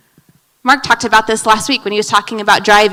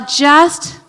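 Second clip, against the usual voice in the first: hushed stop; 4 semitones higher than usual. Shown as a demonstration. Preacher to congregation, whispered stop. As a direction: drop to a near whisper on stop.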